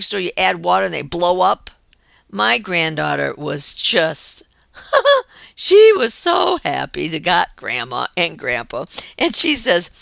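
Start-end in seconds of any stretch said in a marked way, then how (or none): 2.3-8.9 laughing through tears. Real, not acted. Grandma moved, laughing through tears.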